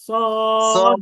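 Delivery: সদ said with the mouth rounded, heavy and full; round-mouthed heavy Saad. Shown as a demonstration. Teacher models Saad for the class, mouth rounded and heavy. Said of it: "সবাই বলেন".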